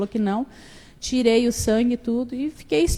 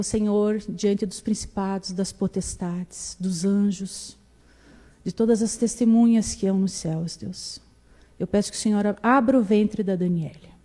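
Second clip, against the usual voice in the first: solemn prayer. Retold or imitated.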